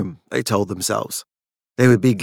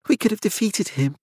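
fearful; 9 semitones higher, 4 dB quieter than usual. A narrator's reading. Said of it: "shaking with fear".

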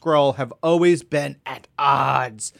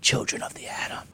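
breathy awed whisper; 7 dB quieter than usual. Retold or imitated. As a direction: whisper it like a secret. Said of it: "And Chris was like".

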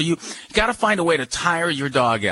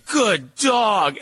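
praising dog; 5 semitones higher than usual. Shown as a demonstration. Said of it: "you say".

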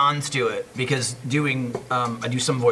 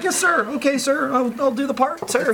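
much higher, eager yes-man voice; mock obedient; 11 semitones higher than usual. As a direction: play the overly dutiful actor. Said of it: "at Funimation, I'm like".

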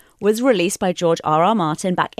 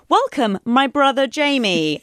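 slow, higher, deliberate greeting; mock Cersei; 5 semitones higher, slower than usual. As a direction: spell out the family tie in mock-stilted acting. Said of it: "she's like".

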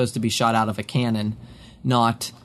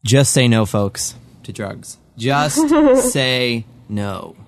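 mock PSA; 3 dB louder, much slower than usual. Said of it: "PSA parody".

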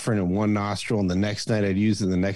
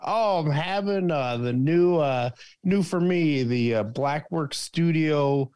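pretend cigar smoker; 6 semitones higher than usual. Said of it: "I can pretend I'm".

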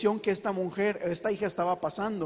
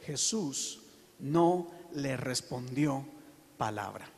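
much lower, softer and slow, almost breathed; dramatic hush; 7 semitones lower, 7 dB quieter, slower than usual. Real, not acted. Preacher to church about Jesus ignoring the woman, a dropped hush. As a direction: let the silence land, sink the voice right down.

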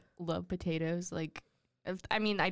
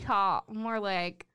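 laughing; 4 dB louder than usual. Real, not acted. Joking pun.

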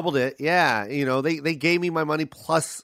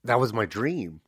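touched; 5 semitones lower, slower than usual. Real, not acted. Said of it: "I'm crying right now".

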